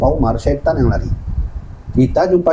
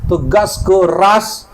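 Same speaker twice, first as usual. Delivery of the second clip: "tegas, keras" drawn out slowly and firmly; slow, hard emphasis on "tegas, keras"; emphatic firmness; 3 semitones higher, much slower than usual. Shown as a demonstration. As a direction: stretch "tegas" and "keras" with weight. Stressing Umar's firmness.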